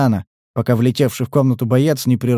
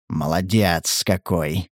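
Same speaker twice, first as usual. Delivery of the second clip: sarcastic; 7 semitones lower, 4 dB quieter, slower than usual. A narrator's reading. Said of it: "язвительно похвалил".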